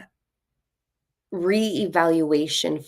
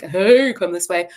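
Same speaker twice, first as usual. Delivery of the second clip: calling out; 2 semitones higher, 7 dB louder than usual. Acted. Guide waving people toward a new world, calling out. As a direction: beckon people over with a raised call.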